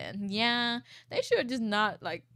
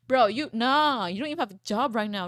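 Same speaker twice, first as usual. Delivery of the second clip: indignant; 3 semitones higher, 9 dB louder than usual. Real, not acted. Scolding the boyfriend in the story.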